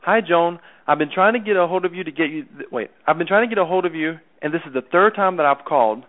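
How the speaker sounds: breathy sales pitch voice going up. Shown as a demonstration. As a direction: demo of a salesy up tone. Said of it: "it's like this".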